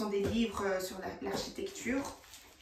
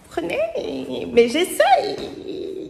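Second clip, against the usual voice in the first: mock plea; 7 semitones higher, 11 dB louder, much slower than usual. Playful drawn-out plea to viewers.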